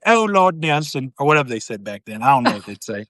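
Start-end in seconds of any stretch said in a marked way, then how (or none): 0.1-1.1 a hint of a slow swooning sigh; mock swoon, lightly voiced; swooning lover. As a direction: breathe his name like a lovestruck lady. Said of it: "And that's just like".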